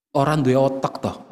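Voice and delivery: low, softened mock-gentle insult; soft-voiced rudeness. Shown as a demonstration. Preacher shows soft voice with coarse words, mock-gentle. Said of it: "orang yang suaranya lembut, tapi pilihan katanya itu kasar".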